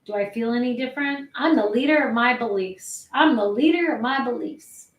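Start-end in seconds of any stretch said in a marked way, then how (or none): 1.3-4.9 slumped state. Shown as a demonstration. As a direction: say it slouched back, without real conviction. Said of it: "in this kind of state".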